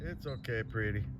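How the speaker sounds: calm the hurt cat down softly; soothing an animal. Real, not acted. Soothing injured bobcat.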